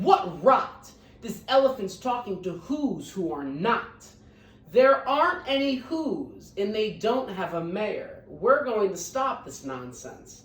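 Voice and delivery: brothers jeering loudly; hammed-up rowdy shouting; mock shouting. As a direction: read as rowdy jeering monkeys. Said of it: "came shouting".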